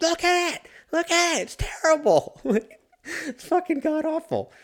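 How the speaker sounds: put-on shrieking scream, very high. Recalling watching a bad movie with a buddy, retelling screaming at a buddy. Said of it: "me just screaming at my buddy".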